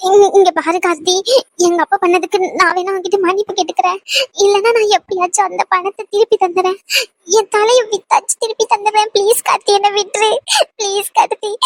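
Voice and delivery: crying as she begs; tearful pleading. Acted. Woman begging Karthi to let her go, crying. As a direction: plead through tears to be released. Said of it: "இப்படி அழுதுகிட்டு இருக்க".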